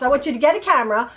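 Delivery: rapid-fire mock instructions; brisk, lightly voiced impression of a son; imitating her son. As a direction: reel off orders quickly, as her son does. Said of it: "This is how he talks".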